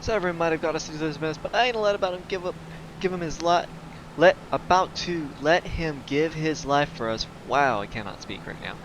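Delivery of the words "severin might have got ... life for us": leve voz de NPC apressada. Acted. Lê falas do NPC.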